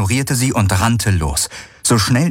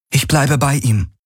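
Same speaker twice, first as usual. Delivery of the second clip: higher, firm insistence; heroine's voice; 7 semitones higher than usual. A narrator's reading. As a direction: stay determined.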